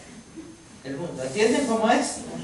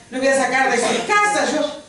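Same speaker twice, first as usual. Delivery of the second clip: higher-pitched, mock-exasperated protest; acted desperation; 6 semitones higher, 3 dB louder than usual. God arguing over the reluctant stutterer, acted desperation. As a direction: protest as if at wits' end. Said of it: "te desesperas".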